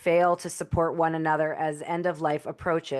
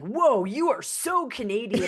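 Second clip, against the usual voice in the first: higher, laughing mock amazement; amazed stranger; 6 semitones higher than usual. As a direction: play a stranger startled by the accent, half laughing. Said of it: "people flat out are like".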